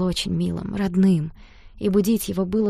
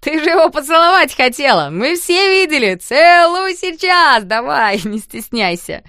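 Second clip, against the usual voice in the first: loud, much higher chant-like taunt; rowdy egging on; 8 semitones higher, 10 dB louder than usual. A narrator's reading. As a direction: goad her, dragging it out. Boys egging her on.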